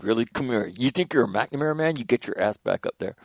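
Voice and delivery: a hint of a stern father, teasing; mock stern dad. Dad dares son back up ladder, light mock sternness. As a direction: dare them back up. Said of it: "I'm like".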